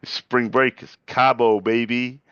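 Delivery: mock party voice.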